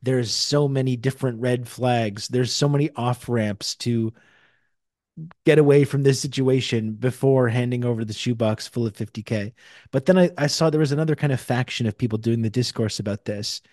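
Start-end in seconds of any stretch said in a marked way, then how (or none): 0.0-9.5 mocking scoff. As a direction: scoff at her like the online mockers. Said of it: "mocking this woman and being like".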